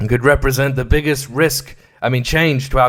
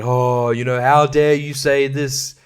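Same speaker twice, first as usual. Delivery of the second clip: hammed-up indignant accuser, higher pitch; mock outrage; 3 semitones higher than usual. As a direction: play the offended side, voice pitched up. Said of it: "they both will claim that".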